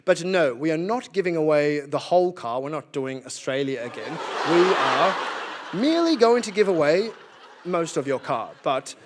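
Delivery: lightly voiced, measured official; a hint of British condescension, deliberately phrased; mock British colonizer. British fobbing off the Palestinians, lightly smug. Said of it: "And the British were like".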